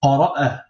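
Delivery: Qara'a cut off on a glottal stop; blocked hamza. Shown as a demonstration. Teacher asking class to listen closely, blocked hamza in Qara'a. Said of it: "hamza bloqué".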